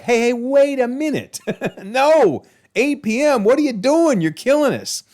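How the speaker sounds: panicked bar owner squealing at the curfew; mock outraged protest.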